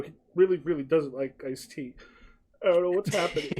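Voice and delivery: a waiter confused to himself; baffled waiter. Acted. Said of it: "you just hear him go".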